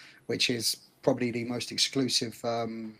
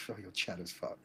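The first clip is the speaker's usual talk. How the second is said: mock girl's voice; 5 semitones lower, 13 dB quieter than usual. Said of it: "She was probably looking at me like".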